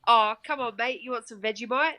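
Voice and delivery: half-hearted hillbilly Aussie accent; lightly broadened Aussie twang; thick Aussie accent. Shown as a demonstration. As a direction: have a reluctant go at broad Australian. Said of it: "really hillbilly Aussie accent".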